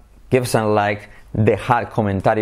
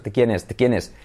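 "de quién es" run together fast; quick, barely separated "de"; said quickly. Shown as a demonstration. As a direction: rattle off "de quién es" as one word. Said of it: "cuando lo dices rápido".

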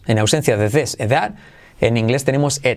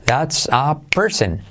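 That's a person said slowly for repeating; teacher modelling slowly; slow model phrase; slower than usual. Shown as a demonstration. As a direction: lay it out slow so they can copy. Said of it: "Repite conmigo".

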